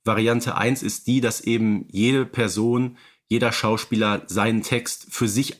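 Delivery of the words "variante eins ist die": normal talking voice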